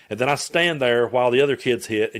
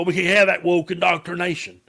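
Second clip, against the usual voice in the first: mocking maga type; 6 semitones higher than usual. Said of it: "set back go".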